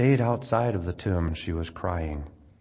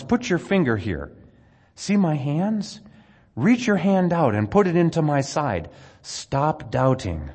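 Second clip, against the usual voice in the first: urgent invitation; 7 semitones higher, 4 dB louder than usual. Acted. Jesus urges doubting Thomas, higher and louder, slowing at the end. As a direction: press Thomas to reach out and believe.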